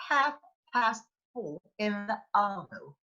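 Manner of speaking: Aussie-style "four" with the R dropped; hint of Australian, "fo" for four; Australian-style accent. Shown as a demonstration. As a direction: lightly imitate an Australian speaker on a recording. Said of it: "if you hear a speaker saying".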